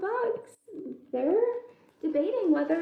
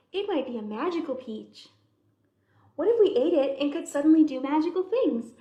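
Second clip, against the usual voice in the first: chatty bug voices. Acted. Bugs debate eating the peach.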